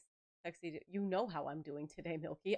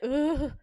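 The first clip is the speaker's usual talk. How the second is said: loud, higher "ugh"; mock groan; 7 semitones higher, 9 dB louder than usual. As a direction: let out an exasperated ugh. Imitates a reaction while retelling date.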